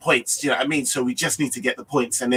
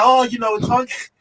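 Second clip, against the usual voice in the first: light mock Irish lilt, higher; imitating a mate's Irish accent; a touch of Irish sing-song; 8 semitones higher than usual. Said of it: "in that sweet melodic Irish accent".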